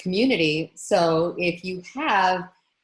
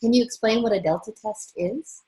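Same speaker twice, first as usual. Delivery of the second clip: speaking up; 5 semitones higher, 4 dB louder than usual. Real, not acted. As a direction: repeat it a bit louder and clearer. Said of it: "your voice is very low".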